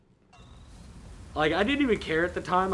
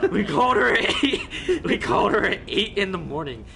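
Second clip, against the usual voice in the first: real angry insistence; 6 semitones higher, 6 dB louder than usual. Real, not acted. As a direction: repeat it louder and higher in outrage. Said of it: "He's shaking with anger right now".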